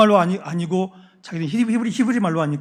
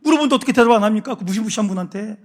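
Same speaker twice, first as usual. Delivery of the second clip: raised, hurried pleading excuses; pleading sons; 4 semitones higher, 5 dB louder than usual. Retold or imitated. Sons plead with their father, higher and faster. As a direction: talk fast to calm an angry father. Sons defend themselves to Jacob.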